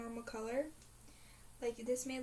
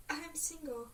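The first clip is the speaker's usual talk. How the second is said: high, loud mock cheer on yay; imitating Crystal cheering being single; 7 semitones higher, 5 dB louder, much slower than usual. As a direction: squeal it like a celebration. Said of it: "she's like".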